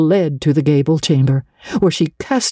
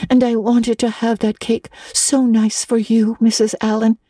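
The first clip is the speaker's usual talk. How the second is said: put-on high-pitched, woeful girl; forlorn; 7 semitones higher than usual. A narrator's reading. Anne had baked for Mrs Allen, forlorn. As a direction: say it with plaintive regret. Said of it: "said Anne forlornly".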